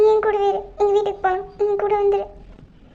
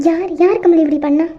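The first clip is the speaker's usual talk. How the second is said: alarmed loud demand; 3 semitones lower, 6 dB louder than usual. Acted. Aunt finds both crying.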